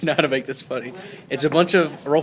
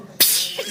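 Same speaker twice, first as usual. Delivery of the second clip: imitated whip crack.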